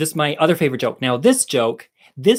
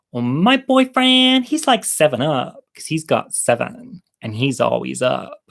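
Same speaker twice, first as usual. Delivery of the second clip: put-on girl's voice. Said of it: "the first girl says".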